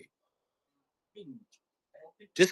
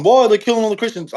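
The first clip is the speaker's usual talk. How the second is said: mocking whine; 6 semitones higher, faster than usual. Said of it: "all people going".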